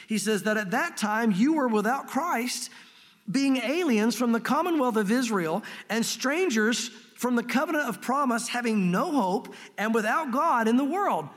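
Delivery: slow, measured Bible reading; scripture reading. Acted. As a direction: read each phrase slowly and deliberately. Reading Ephesians aloud.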